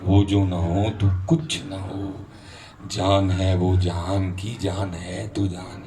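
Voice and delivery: slow poetic recitation with measured pauses; devotional verse recitation. Real, not acted. Preacher quoting the imam's verse to listeners, slow recitation. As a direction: recite it phrase by phrase, lingering on endings.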